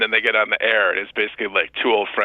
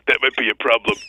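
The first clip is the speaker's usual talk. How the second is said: deadpan. Retold or imitated. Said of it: "completely deadpan".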